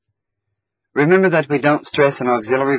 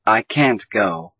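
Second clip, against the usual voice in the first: can't said slower and leaned on; stress on can't; slower than usual. Shown as a demonstration. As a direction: hit the word can't. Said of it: "but we stress it in a negative sentence".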